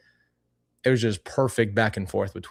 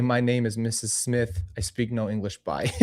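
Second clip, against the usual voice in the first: put-on Italian-accented nana signing off; 4 dB quieter than usual. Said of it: "in her Italian accent".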